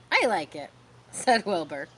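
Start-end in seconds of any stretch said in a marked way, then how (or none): 0.1-0.7 unsure. Acted. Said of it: "He sounded a little bit unsure".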